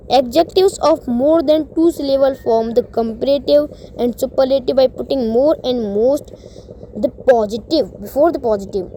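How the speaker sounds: reading the rule at half speed, word by word; slow rule reading. Acted. Teacher reading a grammar rule to students, slow dictation pace. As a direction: read it out slowly like dictation.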